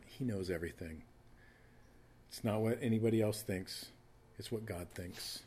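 usual speaking voice

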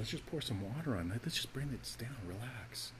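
soft, settling voice, bringing it down; calming hush. Shown as a demonstration. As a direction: drop into a quiet calming tone. Calming the fire down.

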